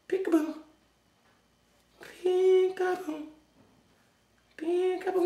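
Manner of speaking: drawn-out peekaboo with a giggle; playful peekaboo. Real, not acted. Playing peekaboo with camera.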